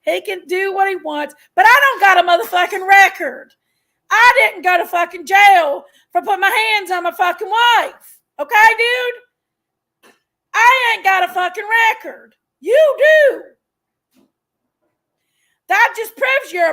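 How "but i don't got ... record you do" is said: angry ranting. Real, not acted. Heated argument with rival.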